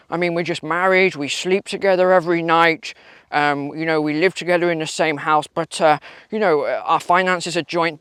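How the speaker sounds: a hint of a self-assured minister explaining away; Rishi Sunak parody. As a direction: brush it off with mock confidence. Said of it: "Mister, uh, Rishi".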